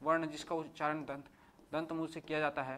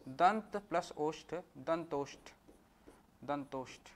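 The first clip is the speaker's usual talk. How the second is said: slow breakdown; 3 dB quieter, much slower than usual. Shown as a demonstration. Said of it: "तो ये कहलाता है दंतोष्ठ".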